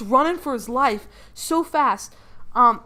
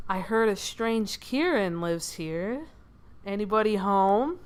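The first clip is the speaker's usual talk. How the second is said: slow, drawn-out creepy stranger; a hint of menace, drawing the words out; lightly voiced creepy man. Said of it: "creepy man he has never seen before".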